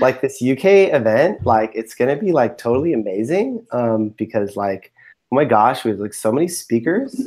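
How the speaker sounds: put-on Valley Girl lilt with rising phrase ends; lightly put-on Valley Girl accent. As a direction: play a gushing Valley Girl. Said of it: "you've got your Valley Girl".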